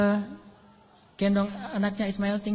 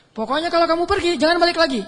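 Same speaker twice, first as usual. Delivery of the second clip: mock angry ultimatum; 5 semitones higher, 3 dB louder than usual.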